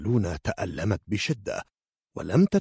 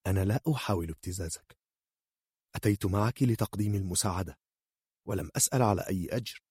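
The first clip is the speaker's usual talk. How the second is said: smiling calm; 5 dB quieter, faster than usual. Acted. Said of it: "ابتسمت نارسيا".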